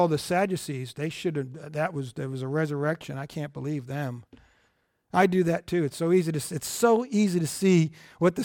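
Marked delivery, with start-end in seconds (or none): 0.0-4.2 smug disbelief. Retold or imitated. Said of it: "Everybody will sit there and go".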